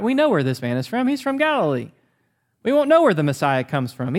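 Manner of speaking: ironic mocking take on the crowd. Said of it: "a slight twisting and irony".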